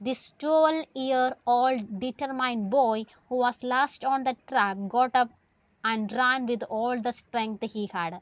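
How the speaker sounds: slow, deliberate story reading; slow read-aloud. Acted. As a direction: stretch the phrases out for the class. Reads text aloud to class.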